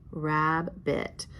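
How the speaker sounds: "Rabbit" in two separate beats; syllable-by-syllable reading. Shown as a demonstration. Teacher reading the word to pupils, syllable by syllable. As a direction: read "Rabbit" as rab, bit. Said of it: "read the word".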